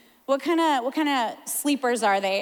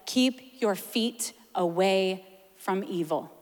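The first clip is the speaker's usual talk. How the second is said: scripture reading; 3 semitones lower than usual. Acted. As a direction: read the proverb with weight. Reads scripture.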